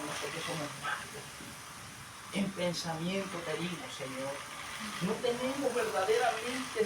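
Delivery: earnest confession to the Father, swelling then subsiding; imitated penitent prayer. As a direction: act out begging God for forgiveness. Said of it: "Yo veo que ese varón dice".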